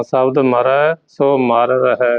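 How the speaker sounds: slow phrase coming to rest on ਰਹੈ; pause after ਰਹੈ. Shown as a demonstration. Teacher shows where the rest falls, pausing after ਰਹੈ. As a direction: stretch it out and stop after ਰਹੈ. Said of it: "ਇੱਥੇ ਵਿਸ਼ਰਾਮ".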